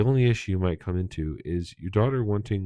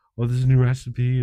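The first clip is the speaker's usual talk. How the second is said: over-apologetic voice, high-pitched and loud; 5 semitones higher, 5 dB louder than usual. Mimicking how a mother apologized to her kid, mock-apologetic. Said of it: "the way that she apologized to the kid".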